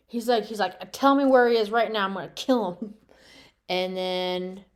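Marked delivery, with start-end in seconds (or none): 0.9-2.9 mock fury. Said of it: "he got all mad".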